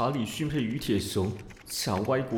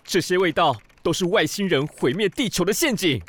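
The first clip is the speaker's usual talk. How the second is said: fussy rant; 4 dB louder than usual. Acted. Ranting about drinks he hates.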